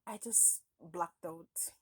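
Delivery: slow whisper; a hushed whisper as the memory goes dark. Real, not acted. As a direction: let it fade into a whisper. Recalling losing consciousness.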